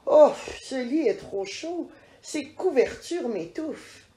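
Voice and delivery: high, loud complaining cry; a child's loud huffy complaint; little girl crying out. Acted. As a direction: protest loudly about the bed. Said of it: "elle crie".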